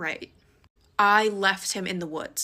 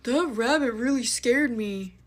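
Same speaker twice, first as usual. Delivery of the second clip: giggling friend; 3 semitones higher, 4 dB louder than usual. Retold or imitated. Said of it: "he was like".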